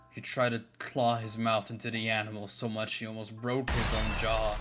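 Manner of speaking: ordinary delivery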